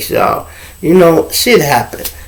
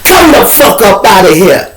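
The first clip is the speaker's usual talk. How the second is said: higher, louder order to get her out; intimidating command; 6 semitones higher, 3 dB louder than usual. Retold or imitated. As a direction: bark it to scare her out the door. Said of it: "I had to intimidate her".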